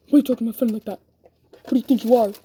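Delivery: loud confrontational demand; angry challenge. Retold or imitated. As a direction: get in her face and shout it. Friend confronts her again.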